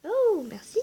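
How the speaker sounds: squealed oh merci; delighted thanks. Real, not acted. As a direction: gush a thank-you. Thanking the gift giver.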